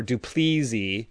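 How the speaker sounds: "Duplessis" as doo-PLEE-zee; mispronounced surname. Shown as a demonstration. Listing wrong versions of his name, with a z sound. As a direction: say "Duplessis" slowly with a buzzing z. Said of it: "or Duplessis".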